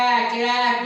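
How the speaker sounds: এক said with an open "æk" sound, like অ্যাক; এক pronounced "æk"; spoken pronunciation. Shown as a demonstration. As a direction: say এক as অ্যাক, not with a closed e. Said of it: "আমরা বলি".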